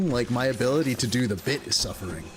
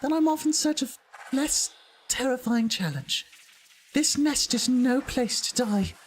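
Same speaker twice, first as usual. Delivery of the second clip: high-pitched put-on British character voice; inner city British accent; 10 semitones higher than usual. Streamer voicing a weary game character, high British accent. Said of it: "inner city British accent or something".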